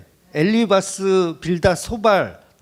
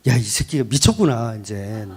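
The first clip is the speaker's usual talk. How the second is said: acted disbelief as Eliphaz; 9 semitones lower, 3 dB quieter than usual. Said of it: "내가 엘리바스라면 어떤 태도를 보이겠어요?".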